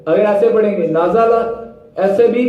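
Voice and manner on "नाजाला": नाजाला with a sharp jolt on the syllables; wrong jerked reading. Shown as a demonstration. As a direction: jerk नाजाला abruptly. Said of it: "यानी कि झटका दिया".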